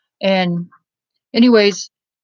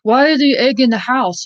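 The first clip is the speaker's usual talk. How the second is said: mock angry question; 4 semitones higher, 4 dB louder than usual. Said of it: "the foster dad would get mad and say".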